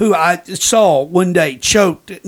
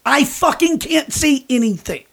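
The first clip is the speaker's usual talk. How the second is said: higher-pitched imitation of an exasperated man; exasperated retort; 5 semitones higher than usual. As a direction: plead your case, fed up. Acting blind man's exasperated retort.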